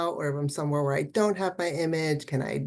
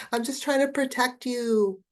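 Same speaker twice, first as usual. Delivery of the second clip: inner critic; 8 semitones higher than usual. Pretend. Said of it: "it might say".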